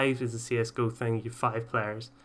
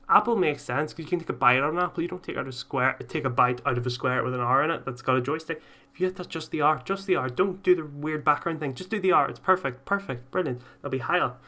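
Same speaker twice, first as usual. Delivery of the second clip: higher, louder fast rant; excited rant; 3 semitones higher, 4 dB louder than usual. Acted. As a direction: rant it out, pitch up.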